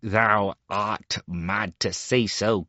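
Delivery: a touch of anger, slowly; mildly angry boy's retort. Acted. Star Child rejects the beggar, mildly angry. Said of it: "cried the Star Child angrily".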